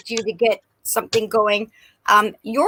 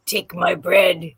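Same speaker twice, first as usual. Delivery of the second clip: devil baker; 5 semitones lower, slower than usual. Retold or imitated. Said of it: "He's like the devil baker".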